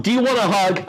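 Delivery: high-pitched teacher impression; imitated awkward offer. Severe teacher to a crying girl, high-pitched imitation.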